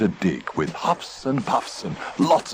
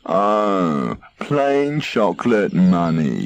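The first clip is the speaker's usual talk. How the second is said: groaned; much slower than usual. A narrator's reading. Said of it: "he groaned".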